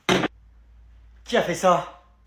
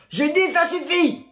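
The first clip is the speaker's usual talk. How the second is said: slow, loud, higher shout; slow angry old-man yell; stern old man; 5 semitones higher, 4 dB louder, slower than usual. Acted. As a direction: bark it out like a fed-up grandfather.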